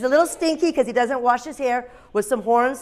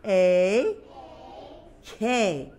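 spelling out; 5 dB quieter, much slower than usual. Shown as a demonstration. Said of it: "Everyone say Y".

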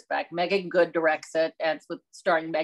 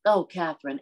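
flowery Southern grandmother; 2 semitones lower than usual. Retold or imitated. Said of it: "my grandmother talked like this".

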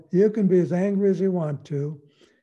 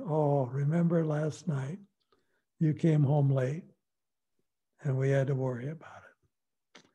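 calm gentle reminder. Shown as a demonstration. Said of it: "then we can say".

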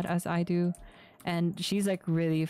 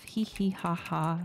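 spoken fake laugh; slower than usual. Shown as a demonstration. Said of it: "let's just laugh it off".

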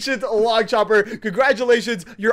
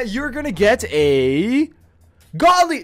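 teasing fake-out; slower than usual. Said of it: "No, I'm joking".

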